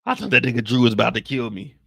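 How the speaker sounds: calm yourself after a scare; shaken. Acted. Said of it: "had me scared".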